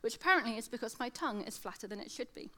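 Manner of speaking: slushy lateral S on every s; lisping s through the sides. Real, not acted. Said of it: "As you'll probably be able to hear".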